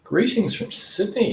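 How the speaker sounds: high, slow sing-song greeting; bright greeting. Real, not acted. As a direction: stretch it out high and welcoming. Reading out a viewer's greeting.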